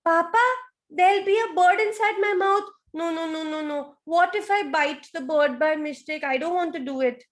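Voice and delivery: put-on high, anxious child voice; high worried baby croc; scared baby crocodile. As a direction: protest fearfully to Papa.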